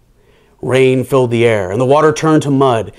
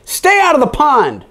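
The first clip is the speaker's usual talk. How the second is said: yelled; 11 semitones higher than usual. A narrator's reading. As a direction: bark the order across the pond. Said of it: "yelled Milton".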